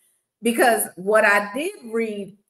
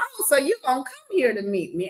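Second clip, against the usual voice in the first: sceptical; 5 semitones higher than usual. Retold or imitated. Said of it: "I said".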